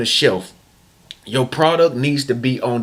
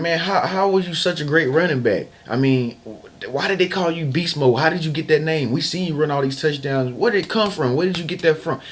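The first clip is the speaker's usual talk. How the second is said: a touch higher, mild interviewer asking; lightly voiced curious interviewer; 3 semitones higher than usual. Interviewer asking the running back, lightly voiced and curious. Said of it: "they was asking him".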